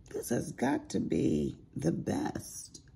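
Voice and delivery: high encouraging. Retold or imitated. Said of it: "I'm like".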